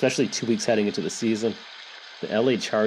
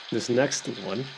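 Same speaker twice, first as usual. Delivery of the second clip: ordinary talk, nothing marked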